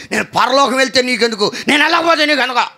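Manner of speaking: what's it to you, bristling; mock indignant retort. Woman brushing off the preacher, mock indignant.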